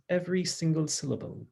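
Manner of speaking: attempted British accent, every syllable pronounced; amateur Queen's English British accent. Shown as a demonstration. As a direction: try to be British, careful with every letter. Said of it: "if I were trying to be British".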